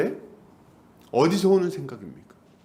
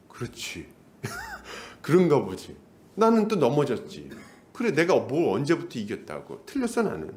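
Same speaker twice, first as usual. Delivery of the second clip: mock defeated mumbling to oneself; foolish resigned self; 2 semitones lower than usual. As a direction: give in to the accuser, hammed-up resignation. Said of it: "우리는 또 바보같이 어떻게 합니까?". (바보같이 체념하는 혼잣말)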